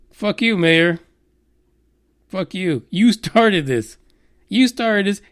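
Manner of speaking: jab each line out; angry rant. Acted. Ranting at the physicist, a hammed-up angry telling-off. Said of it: "My way is".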